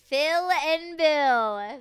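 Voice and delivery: amused echo. Real, not acted. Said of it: "That's so funny".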